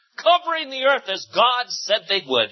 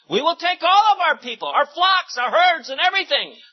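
firm declaration; 9 semitones higher, 3 dB louder than usual. A narrator's reading. Moses declaring.

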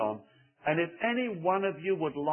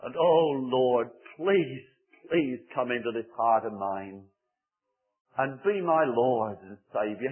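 soft model prayer; 2 semitones lower than usual. Shown as a demonstration. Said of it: "say from your heart to Jesus Christ".

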